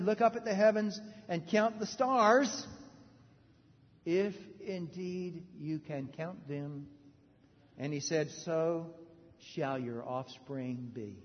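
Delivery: slowing, softening voice of God; slow and reverent. Acted. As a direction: let it fall into awe.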